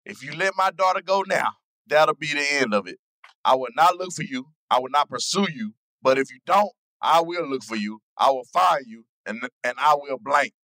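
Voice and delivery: a hint of Liam Neeson's calm menace. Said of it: "As Liam Neeson".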